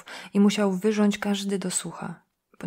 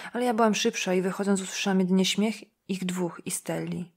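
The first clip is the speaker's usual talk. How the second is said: ordinary delivery, nothing marked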